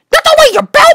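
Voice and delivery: cried out. Acted. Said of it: "Bartholomew cried".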